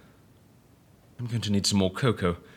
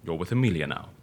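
reassuring. Acted. Calming the scared man.

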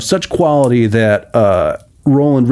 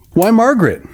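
high, bright greeting to his sister; glad greeting; 11 semitones higher than usual. A narrator's reading. Brother greets his sister after years, high and glad. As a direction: greet her warmly. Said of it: "cried her brother".

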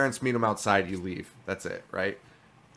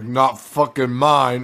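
slow, louder imitation of a blunt disclaimer; mock denial; 6 dB louder, slower than usual. Imitating a friend disowning the baby, mock denial. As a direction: land the retold punchline slowly and firmly. Imitates Paul's deadpan joke reply.

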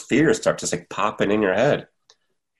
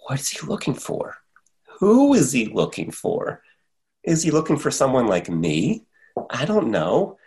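nervous inner thoughts; 5 semitones higher than usual. Retold or imitated. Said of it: "I'm like".

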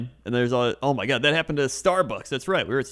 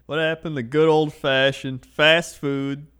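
put-on cranky old man; slower than usual. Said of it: "Krender and I are official old men".

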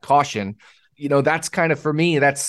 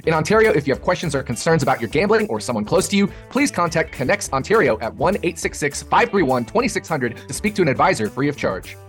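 rapid-fire legal fine print; fast legal disclaimer. Acted. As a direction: rattle off the disclaimer quickly.

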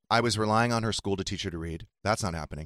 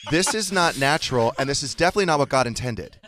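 louder, emphatic pretend objection; mock disapproval; 2 semitones higher, 4 dB louder than usual. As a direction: object with hammed-up moral alarm. Acts out mock objection to book.

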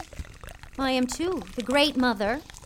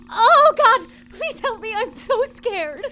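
panicked cry for help; 12 semitones higher, 13 dB louder than usual. Pretend. Feigning fright before the ant.

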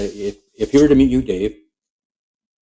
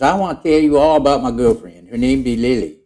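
higher, louder folksy frog bragging; Kermit voice; 4 semitones higher, 3 dB louder than usual. Retold or imitated. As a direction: boast about the girlfriend in the pond, pitched up. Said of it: "He says".

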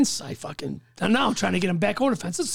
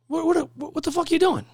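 higher-pitched startled cook, stammering the first word; baffled, raised pitch; retold startled questioning; 7 semitones higher than usual. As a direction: act out a baffled coworker catching someone out. Cook confronts him at the trunk.

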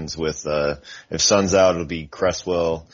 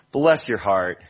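passive aggressive; 5 semitones higher than usual. Shown as a demonstration. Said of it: "passive aggressive".

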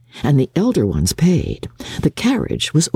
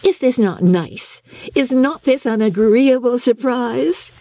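exclaiming; 10 semitones higher than usual. A narrator's reading.

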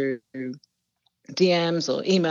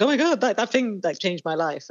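high-pitched excited start, settling down; mock starstruck "oh my God"; imitated gushing; 3 semitones higher than usual. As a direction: gush like an amazed reader, then ease off. Imitating gushing readers, contrast to whisperers.

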